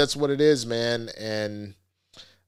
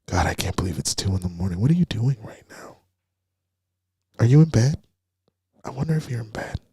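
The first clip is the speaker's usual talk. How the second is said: fast, then louder mock rambling; mock creepy voicemail; 4 dB louder, faster than usual. Mocking a creepy guy asking if she's in bed, rambling. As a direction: ramble like a guy who can't let go. Mock late-night voice message.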